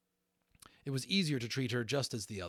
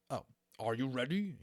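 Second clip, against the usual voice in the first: pleased Maximus; 4 semitones higher, 4 dB louder than usual. Acted. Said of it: "looking pleased".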